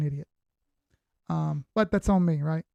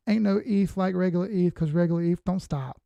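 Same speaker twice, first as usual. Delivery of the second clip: sing-song cheerleader chant. Pretend. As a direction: chant it like a pep rally cheerleader. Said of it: "In my cheerleader voice".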